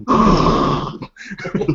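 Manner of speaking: whooshing gush of wind; imitated wind gust. Game master voicing wind behind Ray, whooshing. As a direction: blow a gust through the mouth.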